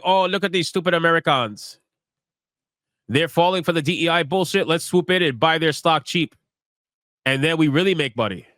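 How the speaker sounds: a hint of a bad Chinese accent, mocking. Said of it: "That was a shitty Chinese accent".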